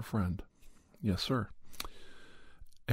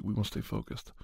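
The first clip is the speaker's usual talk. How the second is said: whisper; 4 dB quieter than usual. Real, not acted. Self-reminder after rambling.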